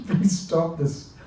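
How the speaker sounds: God asking his humble devotee to stop; the Lord pleading. Retold or imitated. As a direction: gently beg him to stop. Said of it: "God is saying this to his devotee".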